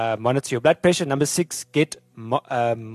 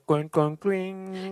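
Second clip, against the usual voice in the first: imitating alarm chime; 7 semitones higher, much slower than usual. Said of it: "there's a tone that goes off".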